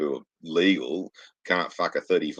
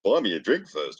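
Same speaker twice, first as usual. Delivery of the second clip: flirty transvestite; 7 semitones higher, 7 dB louder, slower than usual. Retold or imitated. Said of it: "the transvestite's like".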